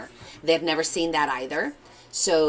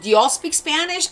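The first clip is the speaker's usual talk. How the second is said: chef asking; 11 semitones higher, 5 dB louder than usual. Retold or imitated.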